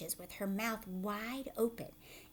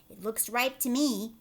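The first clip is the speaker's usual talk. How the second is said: excited aunt; 6 dB louder than usual. Acted. Aunt Spiker insisting to Sponge the peach is there. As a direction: point and shriek about the fruit.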